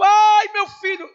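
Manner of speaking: high, drawn-out mourner's wail; performed shout of grief; acted anguished scream. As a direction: cry out loudly like a bereaved parent. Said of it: "e o grito".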